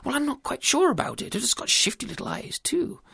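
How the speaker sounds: high, stammering, apologetic bumbler; nervous, babbling husband; flustered husband. Acted. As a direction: make excuses with dithering ums. Husband makes excuses to wife.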